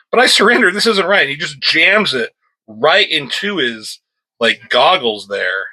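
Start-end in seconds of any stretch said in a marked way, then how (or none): 0.1-1.2 much higher, whiny protest; protesting thug. Acted. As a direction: whine it like a doomed prisoner. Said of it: "He's like".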